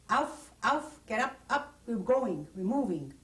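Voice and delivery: high loud order, easing off toward the end; retold barked command. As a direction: rouse the camp like a guard, then let it settle. Guards rousing prisoners at night.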